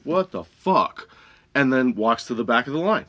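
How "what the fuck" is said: drawn-out, higher mock disbelief; slow incredulous reaction; stunned disbelief. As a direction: imitate a dumbfounded customer, very slowly. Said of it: "looks at me like".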